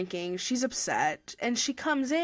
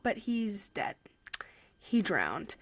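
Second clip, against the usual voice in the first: hushed; 5 dB quieter, slower than usual. Real, not acted. Sad turn in plot retelling.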